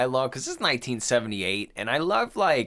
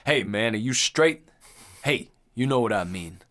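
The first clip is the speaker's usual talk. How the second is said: Roger freaking out; 4 semitones lower than usual. Retold or imitated. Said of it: "Roger's going crazy".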